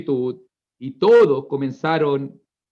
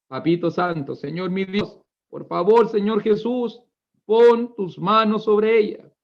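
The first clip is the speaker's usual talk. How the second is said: pleading prayer. Acted. Voices Jairo begging at Christ's feet.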